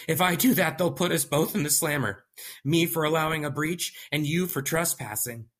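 high, tense panicky man; nervous scientist voice; paranoid young scientist. Acted.

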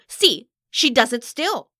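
loud, high, drawn-out accusation; furious diva exclaiming slowly; indignant exclamation. A narrator's reading. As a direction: cry out in outrage. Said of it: "Vali exclaimed".

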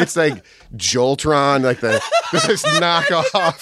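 chuckling through the words; laughing. Real, not acted. Friend joking about a cheap Voltron knockoff, laughing.

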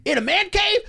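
high, cheesy podcast host; podcaster voice. Retold or imitated. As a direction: hype up the man-cave show. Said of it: "you know, be like".

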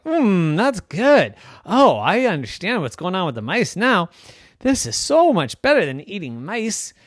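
high, loud bouncy cat voice; delighted kitty. Acted. Another kitty praises the cheese, high and delighted. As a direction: savour every bite out loud.

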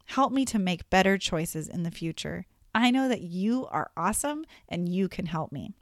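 gentle, sincere request to God; heartfelt prayer. Shown as a demonstration. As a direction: pray it quietly, meaning every word. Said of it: "saying it like you mean it could sound more like".

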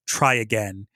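low, understated villain line; mildly imitated low-voiced dare; Ketheric Thorm. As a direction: drop it low, lightly imitating an unimpressed boss. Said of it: "think of J K Simmons just being like".

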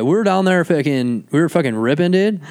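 mock San Diego bro; hammed-up San Diego dude; San Diego accent. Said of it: "San Diego's fucking like".

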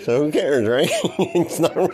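giggling through the words; chuckling dismissively; laughing. Real, not acted. Laughing at his voices.

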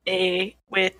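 slow, attempted Canadian accent. Shown as a demonstration. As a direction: lay on a joke Canadian accent slowly. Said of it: "do a Canadian one".

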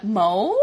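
put-on toddler's "Mo?" for milk, one short rising syllable; imitating a toddler. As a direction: say "Mo?" like a baby trying to say milk. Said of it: "when he says milk".

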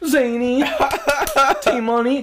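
put-on sing-song drunk call, laughing through it; drunk friend calling. Drunk Matt calling again through the door, high giggling whine. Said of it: "Oh my goodness".

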